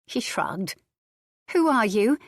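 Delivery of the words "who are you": demanding. A narrator's reading. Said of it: "she demanded of him".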